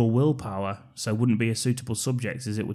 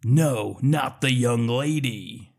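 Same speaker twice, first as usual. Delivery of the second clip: lightly imitated broad Scottish accent; much slower than usual. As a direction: put on a Scottish accent, drawing out the end. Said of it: "in his broad Scottish accent says".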